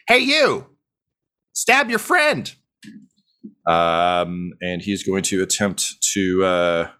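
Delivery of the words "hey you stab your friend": commanding villain. Acted. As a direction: bark the command at the peasant. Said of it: "and he says".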